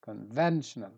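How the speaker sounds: "conventional" leaning on "ven"; stress on VEN. Shown as a demonstration. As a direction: hit the second syllable of "conventional". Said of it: "so I stress ven".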